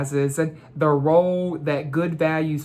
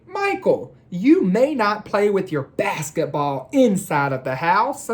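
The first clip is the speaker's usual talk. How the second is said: scolding mom. Acted. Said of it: "Or Mom would say".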